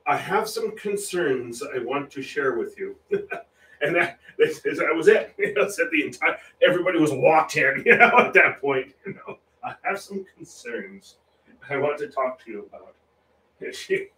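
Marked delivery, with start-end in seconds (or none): 0.1-3.0 slow, measured scolding, lightly imitated; Queen Elizabeth. Retelling the Queen's speech to the nation, mildly stern and slow. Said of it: "went like this". 9.6-12.9 softly imitated royal reproof; a hint of a monarch's friendly scolding; Queen Elizabeth. Quoting the Queen's address, quietly and mildly reproving. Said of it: "Kind of scolded the nation".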